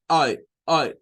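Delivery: Ay as A sliding into E in one sound; short A sound. Shown as a demonstration. Teacher repeats the blended short A for class. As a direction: say Ay blending A and E together. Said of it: "Como decir A y después E, pero en una sola".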